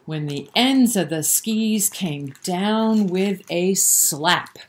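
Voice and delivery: sing-song rhyming storybook read; lilting bedtime-story narration; reading to children. A narrator's reading. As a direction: read the rhyme aloud to little kids. Reads a rhyming picture book.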